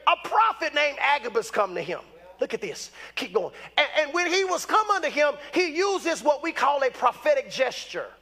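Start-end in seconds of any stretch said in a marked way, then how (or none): none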